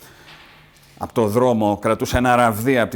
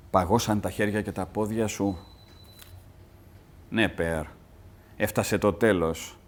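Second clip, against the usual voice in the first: dying mother and son; 3 semitones lower, 3 dB quieter than usual. Acted. Dialogue read lower, softer.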